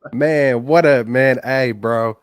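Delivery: caller heard through a phone line; phone-line caller audio; over the phone. Real, not acted. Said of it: "another caller on the line".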